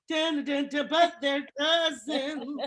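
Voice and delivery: mock the theme reveal; lightly done TV announcer; Patty Duke impression. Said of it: "Patty Duke gonna come in and go".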